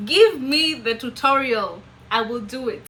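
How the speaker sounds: loud, emphatic demand; mock determination. Desperate teen demanding an accent tutorial, mock determined. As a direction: declare it with comic resolve.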